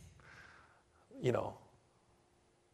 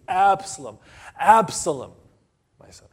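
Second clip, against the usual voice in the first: grieving cry; 4 semitones higher, 9 dB louder than usual. Retold or imitated. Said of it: "David the king was weeping".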